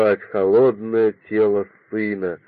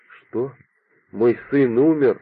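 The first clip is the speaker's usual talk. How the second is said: ordinary delivery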